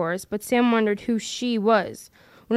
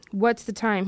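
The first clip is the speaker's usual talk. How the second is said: sleepily. Acted. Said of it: "he said sleepily".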